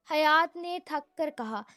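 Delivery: ordinary delivery, nothing marked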